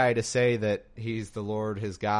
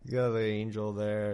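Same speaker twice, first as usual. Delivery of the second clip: studio audience; 2 semitones higher, slower than usual. Retold or imitated. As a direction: gush like a giggling sitcom audience. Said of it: "the studio audience is like".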